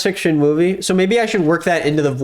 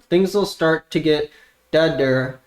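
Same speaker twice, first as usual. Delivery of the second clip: slow ventriloquist practice; slower than usual. Shown as a demonstration. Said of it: "practice without moving my mouth".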